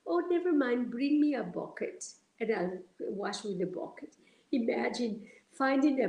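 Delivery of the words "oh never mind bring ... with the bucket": lightly voiced gentle guru brushing off the problem; gently. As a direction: kindly wave away the trouble. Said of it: "gently said".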